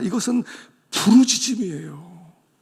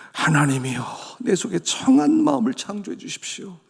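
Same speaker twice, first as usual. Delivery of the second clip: crying out to God; 3 semitones higher than usual. Shown as a demonstration. 목사가 회중에게 시편을 부르짖듯 읽어 보이며, 높아지는 간청. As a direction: cry the psalm out, not a polite reading. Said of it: "이건 부르짖음이었어요".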